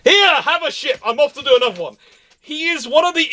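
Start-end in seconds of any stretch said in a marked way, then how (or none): 0.0-2.0 higher, cheery tossed-off brag; breezy mock boast. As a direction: hand over a captured ship like a trifle. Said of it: "and goes".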